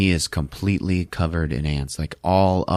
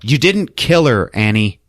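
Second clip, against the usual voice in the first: higher, louder call after someone; yelling out; 4 semitones higher, 5 dB louder than usual. Retold or imitated. Joan to Annie walking out, yelling after her. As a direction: moderate retold yell, slowed for weight. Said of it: "Joan just yells out".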